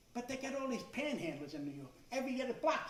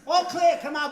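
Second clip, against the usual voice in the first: much higher, very loud plea; impatient shout; 7 semitones higher, 14 dB louder than usual. Retold or imitated. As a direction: yell for the all clear.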